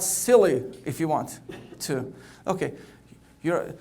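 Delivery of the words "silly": audience-cue shout of "silly"; yelled word. Shown as a demonstration. Speaker showing the audience how to call out "silly". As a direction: call out silly a bit louder. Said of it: "you can yell out".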